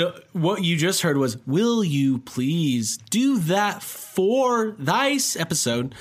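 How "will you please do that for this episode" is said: slow, stretched-out robotic readback. Retold or imitated. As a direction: drag each word out like a glitchy computer. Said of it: "replacing it with a robot voice".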